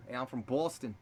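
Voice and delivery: lightly attempted Boston accent; a hint of Boston accent. Shown as a demonstration. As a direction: demonstrate a Boston accent casually. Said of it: "You do, like, a Boston".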